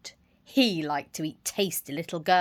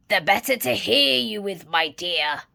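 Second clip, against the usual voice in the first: mild croak; 5 dB louder than usual. Acted. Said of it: "croaked the wolf".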